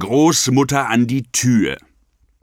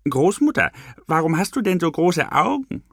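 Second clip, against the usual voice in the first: put-on little girl asking; 7 semitones higher, faster than usual. A narrator's reading. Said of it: "Rotkäppchen fragte".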